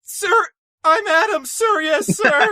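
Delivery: high shouted recruit reply; loud gung-ho soldier. Acted. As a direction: bark it at the drill sergeant. Answering the sergeant as recruit.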